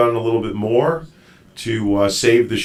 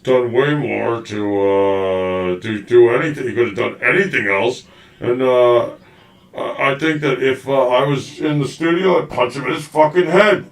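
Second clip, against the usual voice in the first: lightly mock the guest's voice; talking for guest. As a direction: speak up as if you were the guest. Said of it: "so I can talk for him".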